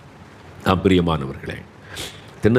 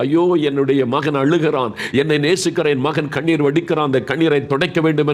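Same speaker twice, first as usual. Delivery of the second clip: higher, urgent fatherly lament; melting compassion; 5 semitones higher than usual. Acted. God seeing His weeping son, melting compassion. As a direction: voice a parent's heart moved by tears. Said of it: "தேவனுடைய உள்ளம் உருகுகிறது".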